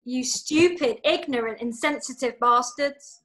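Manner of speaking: a mild, slow-building outburst, last words dragged out; erupting in anger. Acted. Stella rounds on both men, calling them bastards, in a slowed mild outburst. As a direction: let it burst out, not screamed, slowing at the end. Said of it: "and Stella erupts".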